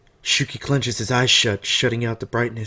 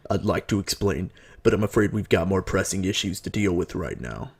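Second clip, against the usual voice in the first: put-on composed older man; 2 semitones lower than usual. Voices older Natsume in the story.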